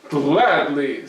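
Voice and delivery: loud and cheerful; Herschel, easygoing. Acted. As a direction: agree gladly. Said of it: "said Herschel".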